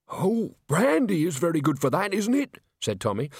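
put-on voice, rising at the question; Tommy, wheedling patient. A narrator's reading. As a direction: wheedle hopefully, pitch lifted. Injured Tommy angles for brandy.

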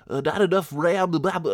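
high-pitched mocking gibberish; mocking error message. Podcaster parroting the computer's error, mockingly.

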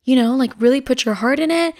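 a hint of a cheering dad nudging his daughter; imitating dad. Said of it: "And then he's like".

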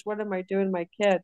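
usual speaking voice

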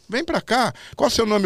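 high, lively mock summons from a show host; Silvio summoning him. Silvio calls the kid onstage to ask his name, high imitated summons. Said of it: "ele falou".

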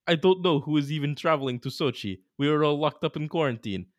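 put-on Valery Karpin Russian accent. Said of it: "Nick, your Russian accent is".

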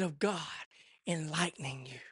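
breathy hushed whisper, dropping low; hushed, secret whisper. Acted. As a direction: lean in and whisper the promise. Quiet whispered scripture climax.

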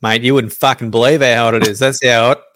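lightly voiced blokey Aussie statistician; casual, hint of a put-on Aussie character; Australian statistics guy. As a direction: answer like a laconic local bloke. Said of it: "Where's the voice?".

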